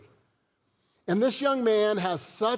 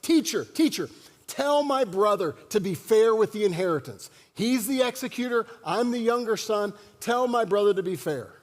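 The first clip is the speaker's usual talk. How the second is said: bold plea. Acted. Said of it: "Someone very boldly".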